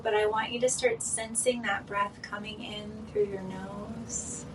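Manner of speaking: calm meditation guide with long pauses; guided meditation. Real, not acted. Host guiding listeners into breathing and relaxing, guided meditation. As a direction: guide them gently into the breath, leaving room between phrases.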